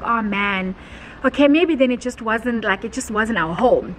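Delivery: imitating a let-down husband, understated; mild disappointment. Husband on the phone about the lost house, mildly disappointed. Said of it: "hear the disappointment in his voice".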